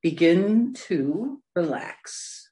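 unhurried meditation guidance with long pauses; guided meditation. Real, not acted. Meditation leader settling listeners into a comfortable position, guided meditation. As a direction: ease them gently into stillness.

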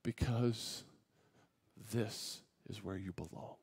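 very soft, low and slow, with long pauses; still small voice. Retold or imitated. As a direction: answer as God in a hushed, gentle voice. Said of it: "in that still small voice".

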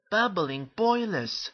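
high, amazed exclamation; astonished. Acted. Thomas seeing himself on the book cover, astonished. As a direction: exclaim it in wide-eyed amazement.

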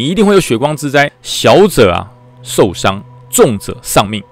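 very slow grave pronouncement; ominous fortune teller. Retold or imitated. Temple keeper spells out the danger, very slow and grave. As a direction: let each word of doom land.

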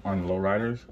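talking through a swollen face; slightly slurred after face surgery. Real, not acted. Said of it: "I'm talking a little funny 'cause my face is swollen".

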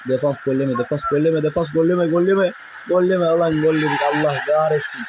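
rapid repeated plea building to a cry; real mounting alarm at a goal; urgent pleading. Real, not acted. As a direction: plead with your defence, rising, then curse. Pleading with defence, then conceding.

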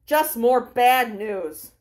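slow, sour humph; grumpy reply. Acted. Newspaper reader grumbling at the stand worker, slow and sour. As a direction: grumble like the news ruined the day. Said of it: "the person replies".

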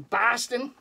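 put-on Boston accent. Showing off a Celtics jersey, Boston accent. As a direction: say it like a mock Bostonian. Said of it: "try to say it with a Boston accent".

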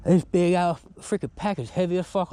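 panting between words; out of breath. Real, not acted. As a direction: talk while catching your breath. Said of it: "I'm out of breath".

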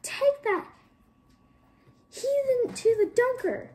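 high, loud screaming command; furious command. A narrator's reading. Administrator ordering girl to the Dunker, loud screamed command. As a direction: bellow the order in horror. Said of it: "he commanded".

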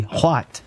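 "what" said as hwat with an aspirated H; old English hwat. Shown as a demonstration. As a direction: breathe an H before "what": hwat. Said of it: "The word what was H W A T".

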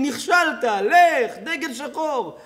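imitating protesters shouting at Bibi; mock protester yells. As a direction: chant it like a hostile crowd.

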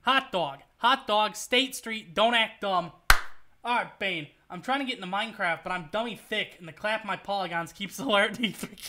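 a light put-on Houston impression; punchy catchphrases in a lightly voiced character. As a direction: do a playful Houston voice. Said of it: "get into my, uh, my Houston voice".

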